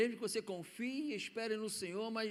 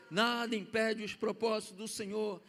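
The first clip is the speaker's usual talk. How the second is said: firm proclamation. Shown as a demonstration. Preacher proclaiming God's purpose to the church, firm. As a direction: repeat it boldly with weight on Nada.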